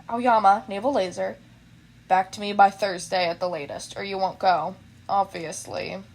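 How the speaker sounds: low, flat tired voice; sleepy teacher, half awake; lightly voiced weary teacher. Teacher voice continues.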